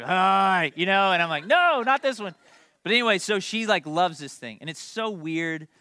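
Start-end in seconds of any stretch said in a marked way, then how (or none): 0.0-0.7 loud mock greeting, drawn out; goofy boyfriend. Strange boy greeting his girlfriend's dad, loud goofy hello. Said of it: "she brings this kid home". 1.5-2.3 loud, high protest, played for laughs; mock horrified refusal. Dad refusing his daughter's imagined boyfriend, loud mock horror.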